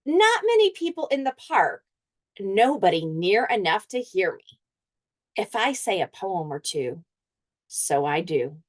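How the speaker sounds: the dog thinks aloud, hopeful; teacher voicing the talking dog to the class; dog Thinker's voice. Dog Thinker narrates his thoughts.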